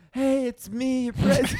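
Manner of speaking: lightly put-on high voice of the president; a hint of Trump greeting his fans; mock presidential voice. Friend doing a jokey president voice for the podcast. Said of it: "you got an affectation going".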